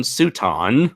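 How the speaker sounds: Suton said the Japanese way, syllables even and clipped; Japanese accent. Real, not acted. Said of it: "That's your J-, Japanese accent coming in there".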